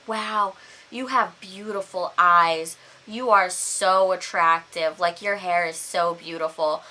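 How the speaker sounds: slow, lightly voiced creep; sleazy man. Drunk stranger comes on to Paige, mildly sleazy. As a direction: drawl out the flattery like a sleazy drunk. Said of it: "he was incredibly sleazy".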